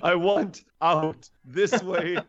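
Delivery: slow, drawn-out plea for escape; mock desperate plea. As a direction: drag out each bid to escape. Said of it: "I was like".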